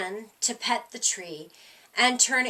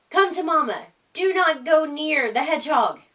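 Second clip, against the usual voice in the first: mother calling her little ones, a bit louder; 5 semitones higher, 6 dB louder than usual. A narrator's reading. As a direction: call the babies back to safety. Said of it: "Possum called".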